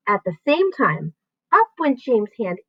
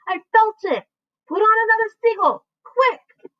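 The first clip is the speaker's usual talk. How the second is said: excited urging; 12 semitones higher than usual. A narrator's reading. Excited crew.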